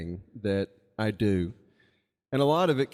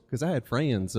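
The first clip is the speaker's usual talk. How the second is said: "friends" stretched to three syllables, Southern style; imitating his childhood Southern twang; little hick Southern accent. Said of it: "saying friends with three syllables".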